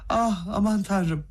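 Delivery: slow, high, changed voice of dismay; shocked gasp. A narrator's reading. Kolya claps his hands at the slap, slow shocked cry. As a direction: gasp it out in horror.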